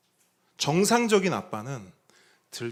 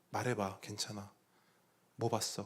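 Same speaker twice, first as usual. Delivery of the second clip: soft coaxing; 5 semitones lower, 10 dB quieter than usual. Retold or imitated. Father coaxing scared daughter.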